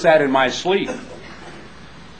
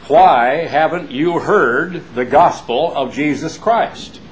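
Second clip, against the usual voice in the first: slow, emphatic preacher challenge; a touch of his father's preaching voice; imitating his father; 3 semitones higher, 3 dB louder, slower than usual. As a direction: quote father's famous line, drawn out. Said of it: "My father ... has said thousands of times".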